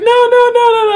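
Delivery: squeaky imitation of a friend objecting; imitated frantic protest. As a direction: fire off high mock-panicked refusals.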